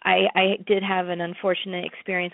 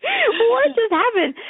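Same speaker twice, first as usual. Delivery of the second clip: slow, very high, louder echo with no laugh; stunned echo; 5 dB louder, much slower than usual. Retold or imitated. Scene: echoing the friend's stunned question, slow and high. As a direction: drag out the friend's shock once more. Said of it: "And my friend's like".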